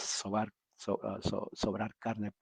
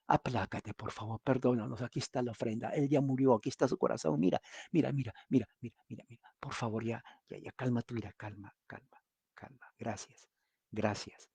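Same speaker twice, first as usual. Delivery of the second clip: pleading prayer. Acted. Villagers pleading with angry god.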